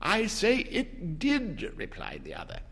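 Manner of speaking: insist, then falter; husband insisting then noticing wife; insistent old man. A narrator's reading.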